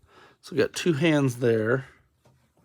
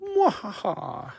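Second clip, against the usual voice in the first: mad scientist laugh; 8 semitones higher, much slower than usual. Pretend. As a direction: redo the villain cackle for camera. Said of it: "how about I do that on the camera".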